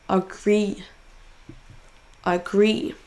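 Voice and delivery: GREE in "Agree" held long; stressed syllable drawn out. Shown as a demonstration. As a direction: lean on the second syllable of "Agree". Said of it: "en prononçant plus fort la syllabe". (deuxième syllabe de « Agree » traînée)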